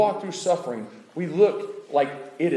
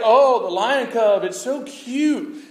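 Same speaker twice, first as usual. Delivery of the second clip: higher, slow, cooing; cooing over a cub; 5 semitones higher, 3 dB louder, slower than usual. Retold or imitated. Onlooker cooing at a baby lion, high and slow. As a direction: gush slowly over something cute. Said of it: "and you're like".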